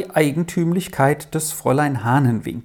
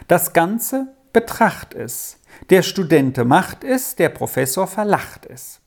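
weighty riddle verse, higher on many phrases; emphatic; 4 semitones higher than usual. A narrator's reading. Jul poses his own riddle to Rolf, emphatic. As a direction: recite the riddle with measured emphasis. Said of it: "Jul sagte mit Nachdruck".

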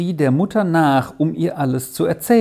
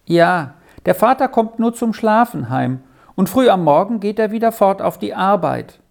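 lightly voiced boy, pitched higher; a hint of a child's higher voice; lonely boy; 5 semitones higher than usual. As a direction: read as a lonely young boy, in a raised voice. Narrator voices the lonely boy Beni.

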